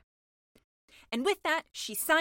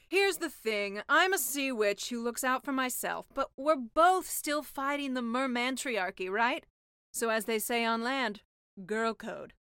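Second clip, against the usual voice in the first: louder, slow conspiratorial witch; sea witch voice; 5 dB louder than usual. Acted. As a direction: win her over, girl to girl. Sea witch bonding speech.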